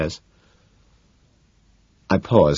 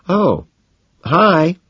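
casual; 12 semitones higher, 6 dB louder than usual. A narrator's reading. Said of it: "I say casually".

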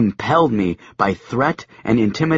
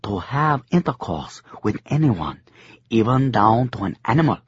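lightly voiced old crone; a hint of a toothless old woman. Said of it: "she said".

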